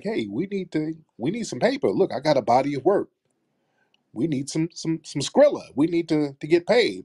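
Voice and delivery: lightly voiced plea for money; pleading actor. Acts out actors asking for money.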